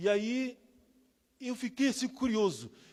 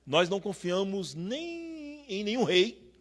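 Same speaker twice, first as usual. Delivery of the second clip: prayer; 2 semitones lower, slower than usual. Acted. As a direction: pray it reverently to God. Oração sobre música. (oração solene e pausada)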